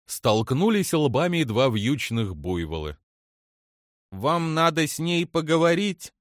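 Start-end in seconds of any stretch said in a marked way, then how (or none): 4.1-6.1 tentative question, pitched higher; hesitant. A narrator's reading. Girl asks whether a talk is needed, hesitant. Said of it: "нерешительно спросила Черри".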